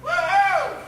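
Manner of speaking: high-pitched cheering whoop; squealed crowd cheer; high woo-hoo. Acted. Doing the announced woo-hoo cheer.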